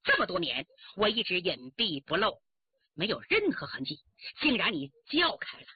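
grim reproach. Acted. Villain reproaches her accomplice.

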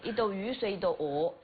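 repeating in Changsha dialect; imitated Hunan dialect. Shown as a demonstration. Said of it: "用湖南话怎么读啊". (跟着用湖南话念)

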